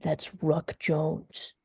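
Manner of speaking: attempt at gravelly voice. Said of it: "in his best attempt at a gravelly voice".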